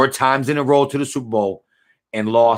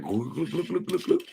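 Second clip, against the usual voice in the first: a quick, quiet glug glug glug, mimicking a drink going down; imitated gulping sounds; 7 semitones higher, 9 dB quieter than usual. Shown as a demonstration. Streamer mimicking his drink for the chat, quiet glugs. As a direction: sound out each swallow softly. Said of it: "You hear my drink?".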